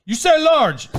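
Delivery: high-pitched mock insistence; incredulous waitress. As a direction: imitate a server who still can't believe the order. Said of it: "turned around one more time".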